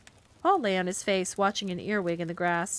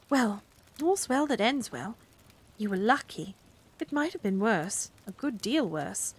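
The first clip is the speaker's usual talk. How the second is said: Miss Price; 2 semitones higher than usual. Acted. Miss Price voiced slowly.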